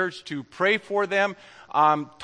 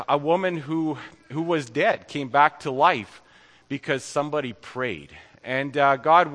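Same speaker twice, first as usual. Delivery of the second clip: prayer; 3 semitones lower than usual. Acted. Closing prayer to the congregation.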